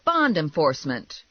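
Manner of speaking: loud, firm announcement; shouting. Acted. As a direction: call out your authority through the door. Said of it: "I shouted".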